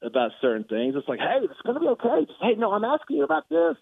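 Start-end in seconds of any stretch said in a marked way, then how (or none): 1.2-3.8 high, gentle coaxing; calm a raging coach down; soothing. Retold or imitated. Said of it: "talk him off the ledge".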